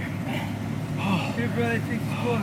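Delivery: breathless, airy start; gasping for air. Real, not acted. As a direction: speak while catching breath. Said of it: "I'm so out of breath right now".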